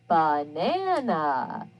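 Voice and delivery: "Banana" drawn out slowly, with "uh" for the first and last A; schwa sounded out. Shown as a demonstration. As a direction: stretch out "Banana" so each unstressed A says uh. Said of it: "let's look at the word banana".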